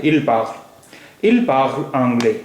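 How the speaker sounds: "il parle anglais," drawn out slowly, word by word; slow teacher demo of the French; slow careful model. Shown as a demonstration. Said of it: "वो अंग्रेज़ी बोलता है".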